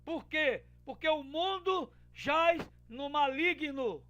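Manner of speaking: loud, high, fiery preaching; preaching at full force. Acted. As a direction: thunder a warning from the pulpit.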